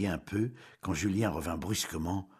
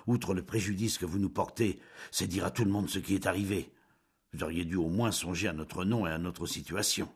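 calmer tone. Acted. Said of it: "d'un ton plus posé".

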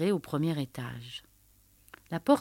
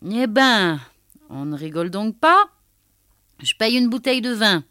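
embarrassed laugh in the voice; 4 semitones higher, 8 dB louder than usual. A narrator's reading. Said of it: "riant d'un rire gêné".

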